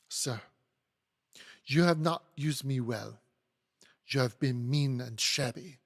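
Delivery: put-on accusing, in a light French accent. Hortense accuses the lawyer, French accent. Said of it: "apologize for my French accent".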